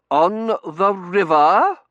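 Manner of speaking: icy, disdainful question. A narrator's reading. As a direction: freeze him out. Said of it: "stare was pure liquid nitrogen".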